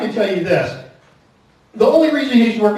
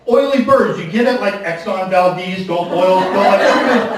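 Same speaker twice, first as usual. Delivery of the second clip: overexplain the pun to a blank face; comic explaining his own pun, pitched up; explaining the joke. Retold or imitated. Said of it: "She just looks at me like".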